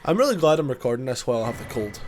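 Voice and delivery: dry, deadpan sarcasm; sarcastic. Real, not acted. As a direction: say it with heavy sarcasm. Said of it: "that's sarcasm".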